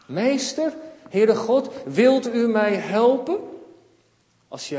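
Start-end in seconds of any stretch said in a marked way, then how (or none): 0.1-3.4 pleading prayer. Acted. Models asking God for help.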